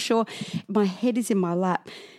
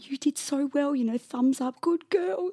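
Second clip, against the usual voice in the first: higher-pitched cooing encouragement; cooing praise; 8 semitones higher, 3 dB quieter than usual. Retold or imitated. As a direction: lightly mimic an encouraging auntie. Aunties' encouragement acted out.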